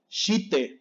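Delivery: shite as two syllables, "shi-te"; fully sounded I. Shown as a demonstration. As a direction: voice the I in shite clearly. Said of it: "mal, no es shite".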